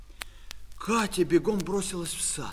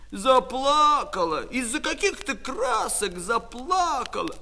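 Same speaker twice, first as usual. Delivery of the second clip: taunting; 5 semitones higher than usual. Acted. Brother teases crying sister from tree.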